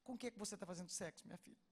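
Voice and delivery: soft, careful, almost hushed asking; quiet gentle question. Retold or imitated. Gently asks about intimate secret.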